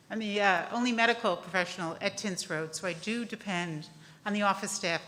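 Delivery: loud, nervous, unsteady voice. Real, not acted. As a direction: voice shaking with nerves. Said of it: "my voice is shaking".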